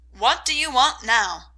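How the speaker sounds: put-on a touch of a sharp, testy old lady; sharp old aunt. A narrator's reading. Old aunt questioning the visitors, mildly sharp. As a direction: peer over spectacles and snap lightly. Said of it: "looking sharply over her spectacles".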